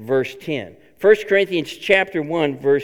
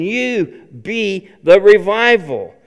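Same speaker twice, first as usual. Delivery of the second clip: slow, earnest urging; God's urging; 2 semitones higher, 5 dB louder, slower than usual. Retold or imitated. God nudging the church, slow and earnest. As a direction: say it slowly as God calling you. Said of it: "God is tapping us on the shoulder and saying".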